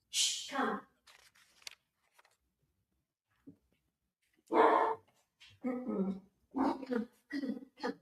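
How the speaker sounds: soft, hushed coaxing to a pet; quietly calm and call the dog over. Real, not acted.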